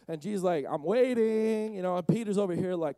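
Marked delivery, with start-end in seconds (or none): 0.7-1.7 singsong impatience. Acted. Jesus waiting for Peter.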